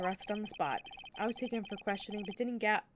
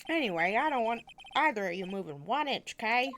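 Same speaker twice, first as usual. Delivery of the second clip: Gumshoe voice; 5 dB louder than usual. Acted. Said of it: "Coming in and out of these voices".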